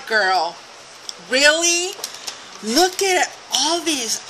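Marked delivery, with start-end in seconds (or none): 1.3-4.2 can't believe the gift; delighted surprise. Real, not acted. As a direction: gasp it out, thrilled. Finds more tags in the package.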